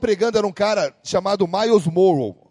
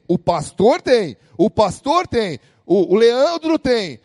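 mock slow excuse; slower than usual. Mimics listeners pointing to others.

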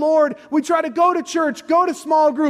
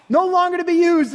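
forceful shout; 5 semitones higher than usual. Real, not acted. Preacher stressing ruined shirt.

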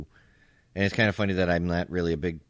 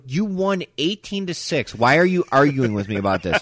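exasperated retort; 7 semitones higher, 5 dB louder than usual. Retold or imitated. Losing player retelling his retort to the winning coach, exasperated. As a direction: retell it with mounting, half-laughing exasperation.

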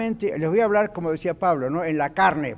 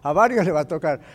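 altar call demo. Shown as a demonstration. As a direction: roll through the altar-call list with rising force. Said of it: "uno puede decir".

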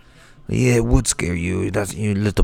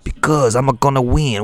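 a light Wario-style boast, a bit higher; mock cartoon villain gloat; Wario impression; 3 semitones higher, 3 dB louder than usual. Shaman answering why he talks that way, lightly Wario. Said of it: "That's just a Wario impression".

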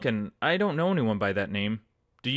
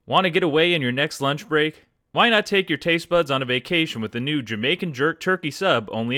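upbeat sponsor read voice. Acted. Host reading the Firehouse Subs sponsor ad, upbeat. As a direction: sell the sub like a radio spot.

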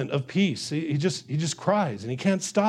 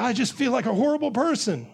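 higher-pitched mock self-reproach; distressed protest; 5 semitones higher, faster than usual. Preacher as David replying to friend, higher distressed protest. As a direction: insist on it as the troubled David.

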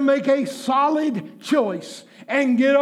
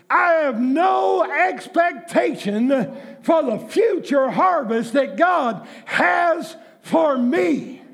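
preaching; 3 semitones higher, slower than usual. Acted. Preaching the need to sow.

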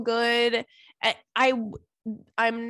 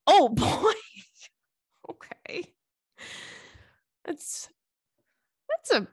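laughing reaction; 7 semitones higher, slower than usual. Real, not acted. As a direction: burst into a real laugh. Reacting to shocking listener letter.

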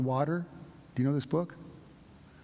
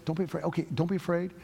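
a light, raised-pitch angel voice; angel's reassurance; 5 semitones higher than usual. Retold or imitated. Angel calming Mary and Joseph, lightly raised reassurance. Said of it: "the angel says that".

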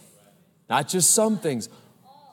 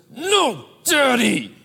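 put-on much higher, a cranky child's protest; whiny toddler; 8 semitones higher, slower than usual. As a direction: play the little boy stamping his foot. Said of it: "He says".

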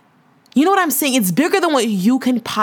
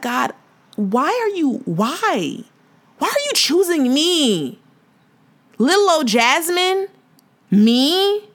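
tearful plea to God; 4 semitones higher, slower than usual. Retold or imitated. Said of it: "And I just start crying because it's like".

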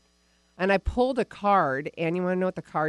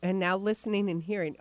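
yawning. Real, not acted. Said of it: "I had a yawn".

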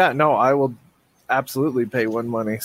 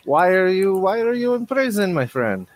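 sudden friendly turn; 4 semitones higher than usual. Acted. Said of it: "abruptly changes attitude".

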